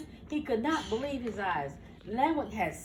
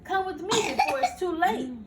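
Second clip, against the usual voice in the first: a raised, urgent call; urgent cry; 5 semitones higher, 3 dB louder than usual. Acted. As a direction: hurry him away with a mild cry. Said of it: "cried Jimmy Cricket".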